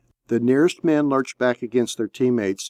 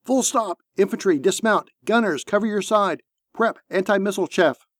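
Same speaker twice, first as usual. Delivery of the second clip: high, urgent commands without extra volume; contained battle shout, pitched up; shouted orders; 7 semitones higher than usual. A narrator's reading. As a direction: rap out orders like a tank commander. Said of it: "Tomas shouted".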